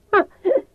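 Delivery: hard ugly laugh; high brittle laugh, bitter. Acted. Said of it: "It made me laugh, hard, brittle, ugly laughter".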